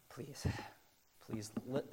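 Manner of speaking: acted, heartfelt plea; imagined apostle quietly pleading; earnest pleading. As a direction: beg them gently to hear you. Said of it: "I am pleading with you".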